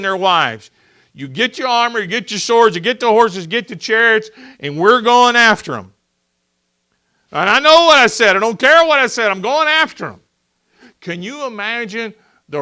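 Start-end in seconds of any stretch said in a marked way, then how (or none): 2.4-10.2 louder, higher raging king's shout; furious Pharaoh. Acted. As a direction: bark it out like an enraged ruler bent on revenge. Pharaoh voiced chasing the Israelites.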